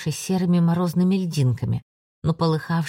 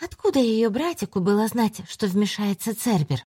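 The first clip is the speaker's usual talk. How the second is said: higher, taunting shadow voice; dark spirit voice; 5 semitones higher than usual. Acted. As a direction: needle them from the dark corner.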